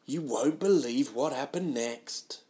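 slow, lightly voiced teaser line; clickbait tease. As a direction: stretch the hook like a mild headline. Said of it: "a lot of clickbait".

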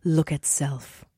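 toddler's dramatic little command, imitated without sobbing; imitating crying daughter. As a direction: voice a small child's solemn drama. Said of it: "she was crying".

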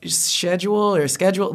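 first "schedule" with sh, second "schedule" with sk; British versus American pronunciation. Retold or imitated. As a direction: contrast "schedule" said SHED-yool with "schedule" said SKED-jool. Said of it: "Do we say".

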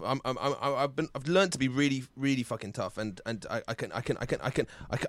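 choked-up, quiet, halting voice; fighting back tears, voice barely there; crying. Real, not acted. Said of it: "Can't believe you actually cried".

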